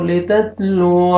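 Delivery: लितत्लुव ended as at a stop, the alif then read; pausal stop. Shown as a demonstration. Teacher showing how to stop on लितत्लुव. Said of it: "आपने अगर stop करना है तो".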